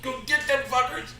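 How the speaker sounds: rowdy mock battle cry; drunk rallying shout. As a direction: hype your buddies into the fight. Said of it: "and we're like".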